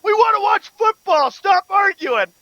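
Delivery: playing a grumpy TV viewer who's fed up; mock viewer complaint. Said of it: "People be like".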